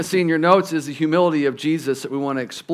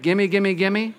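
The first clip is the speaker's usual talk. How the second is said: mock greedy begging; 2 semitones higher, 3 dB quieter, slower than usual. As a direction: lightly imitate a grabby child. Imitates greedy people.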